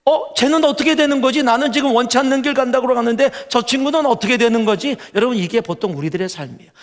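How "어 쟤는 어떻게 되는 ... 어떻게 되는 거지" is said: high, whiny voice of Peter; Peter's complaint. Retold or imitated. Peter to Jesus, whining about John. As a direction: whine like Peter eyeing John. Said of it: "베드로도요".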